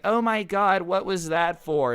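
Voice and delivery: high, loud startled protest after a slap; shocked outcry. Retold or imitated. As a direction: yelp it out as if just slapped. Girlfriend slapped by mom at dinner.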